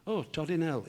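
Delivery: mild curse mangled by a speech defect; comic fronted consonants; Harry. Acted. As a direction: swear with t in place of the proper consonant. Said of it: "a slight speech defect".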